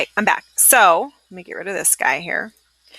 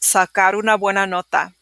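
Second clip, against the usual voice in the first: fast. Shown as a demonstration. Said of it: "gonna say it fast".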